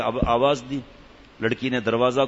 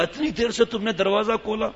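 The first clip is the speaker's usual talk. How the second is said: angry husband shouting; 4 semitones higher than usual. Acted. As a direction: bellow it like an enraged husband putting on a show. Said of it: "زور سے چیخ ماری".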